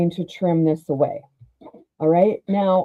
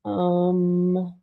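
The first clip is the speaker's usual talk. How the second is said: muffled; slower than usual. Real, not acted. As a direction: voice muffled as if behind a hand. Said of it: "I'm muffled now".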